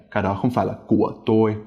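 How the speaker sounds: quick sentence with của dropped low; của unstressed and short, pitch staying down; low, sharp tone. Shown as a demonstration. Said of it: "Listen to the word của again".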